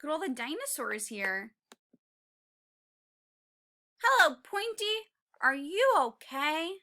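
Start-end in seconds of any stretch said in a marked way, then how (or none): 4.0-6.7 tiny T-Rex. Acted.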